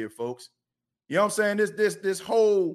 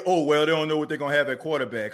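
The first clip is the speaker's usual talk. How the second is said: mock pundit; 4 semitones lower, faster than usual.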